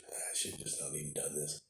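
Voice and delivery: muttered whisper to himself. Real, not acted. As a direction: drop to a whispered aside. Muttering aside while sniffly.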